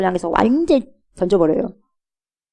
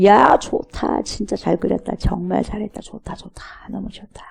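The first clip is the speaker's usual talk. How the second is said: delighted murmur. Acted. Painter admiring his own painting.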